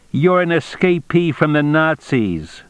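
high-pitched, pressing accusation; accusing cop. A narrator's reading.

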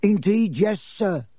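high, eager little elf; squeaky servile house elf. Acted. House elf Dobby speaks.

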